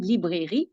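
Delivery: librairie said the French way, lee-breh-ree; French pronunciation. Shown as a demonstration. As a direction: librairie in French with three even syllables. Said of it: "it's a bit the same pronunciation".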